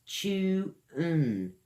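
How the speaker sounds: chew, un said slowly as separate syllables. Shown as a demonstration. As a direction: split chew and un apart. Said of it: "Use your tongue a lot in this one".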